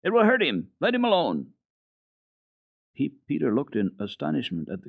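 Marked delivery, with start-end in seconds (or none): 0.0-1.5 high, firm indignant command; girl indignantly forbidding the boy to strike; indignant cry. Acted. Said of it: "cried indignantly".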